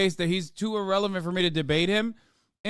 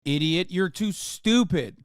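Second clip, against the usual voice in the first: louder, slowing into a mock tirade at the kid; mock parent yelling; 5 dB louder than usual. Mocking a conservative parent yelling at the child. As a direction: berate the child in a hammed-up rage. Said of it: "I'll be like".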